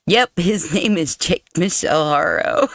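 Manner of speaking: amused, breaking into a laugh. Real, not acted. Reader amused by defendant's misread name, laughing. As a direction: try not to laugh while confirming the odd name. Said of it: "I shouldn't be laughing".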